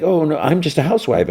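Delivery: high, whiny mock lament; sighing put-on housewife whine; mock self-pity. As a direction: play it pitifully, up high. Harley self-pity acted out.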